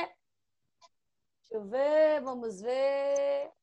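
slow, stretched-out words while looking; drawn-out searching. Real, not acted. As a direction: stall while you search, dragging each word. Searching the wheel for a syllable.

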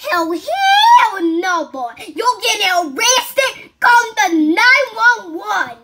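slow, laughing yell of refusal; laughing mock shout. To the roasting son, a slow laughing mock shout. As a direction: shout it out, cracking up, dragging the words. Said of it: "But I say".

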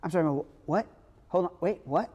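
baffled stammering double-takes; mock bewildered "wait, what?"; confused disbelief. Paralyzed man baffled at Jesus's words, stammering confusion. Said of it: "that guy's gotta be like".

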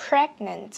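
"Pregnant" with the final T popped out; released final T. Shown as a demonstration. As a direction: say "Pregnant" with a clearly released T at the end. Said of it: "bật chữ T ra". ("Pregnant" bật rõ âm T cuối)

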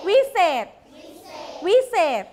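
วิเศษ said crisply with a falling "-set" ending; model pronunciation. Shown as a demonstration. Teacher having pupils repeat วิเศษ, model pronunciation. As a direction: say วิเศษ alone for repetition, ending in a stopped d/t sound. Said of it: "พูดสิคะ".

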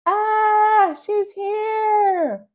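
high, loud startled cry; alarmed. A narrator's reading. Boy alarmed the babysitter has arrived. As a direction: gasp it out in alarm.

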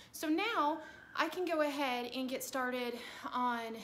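breathless, loud and pushed; winded from working; out of breath. Real, not acted. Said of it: "I'm out of breath".

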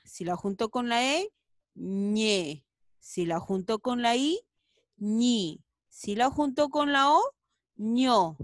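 ña, ñe, ñi, ño, ñu sounded out clearly; syllable drill. Shown as a demonstration. Teacher drills the syllables ña to ñu. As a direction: say each syllable crisply. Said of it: "Acá tenemos".

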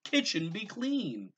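high, loud, slow magic command; grand spell command. A narrator's reading. Gabriel ordering the kitchen clean, loud slow spell. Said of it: "he exclaimed".

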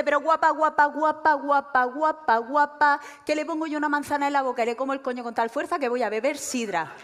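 mock a crude emcee getting carried away; overexcited presenter. Man on stage gushes over the comedian, loud overexcited presenter. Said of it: "se sube el señor en el escenario y empieza".

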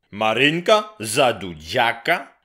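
high, loud outburst; violent yell. Acted. Grześ hearing his girl married off, yelling. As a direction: shout in disbelief. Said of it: "wrzasnął gwałtownie".

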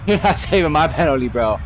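laughing, cocky; laughing taunt at the keeper; laughing repeat. Real, not acted.

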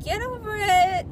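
high, loud dismissive snap; mock retort. Telling critics to get over it, high and loud. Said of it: "I'm like".

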